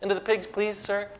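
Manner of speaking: high, pleading, frantic begging; begging demons. Acted. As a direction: grovel and plead like terrified demons. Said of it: "They begged him".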